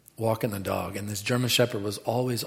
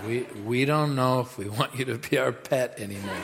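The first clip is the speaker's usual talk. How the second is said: soft amused quote; laughing about the bulldog; 4 dB quieter than usual. Retold or imitated. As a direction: chuckle through it. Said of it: "we were like".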